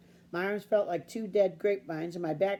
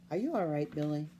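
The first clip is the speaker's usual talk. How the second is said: slow, calm voice; 3 semitones lower than usual. Acted. Father checking on his tired son, slow and calm. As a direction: ask gently, no rush. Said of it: "In a slow, calm voice, he asked".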